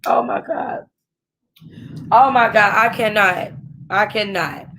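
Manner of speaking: aghast, losing steam; overwhelmed disbelief. Acted. Character reacting to the kidnapping.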